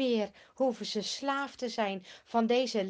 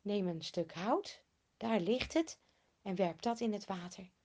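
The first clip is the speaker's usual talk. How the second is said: calm divine voice; 3 semitones lower, 6 dB quieter than usual. Acted. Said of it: "De Heere zegt".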